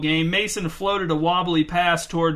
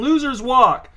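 higher, louder taunt; gloating shout; 7 semitones higher, 5 dB louder, slower than usual. A narrator's reading. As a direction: rub it in, loud. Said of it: "shouted Mary Ann".

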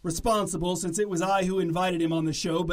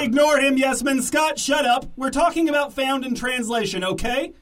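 angry; 4 semitones higher, 4 dB louder than usual. Acted. Host yelling at guest.

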